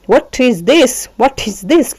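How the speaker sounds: what is this with the t of what swallowed; dropped t. Shown as a demonstration. Teacher demonstrating dropped t in what is this. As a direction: glide past the t in what. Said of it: "टी को वो drop करना है".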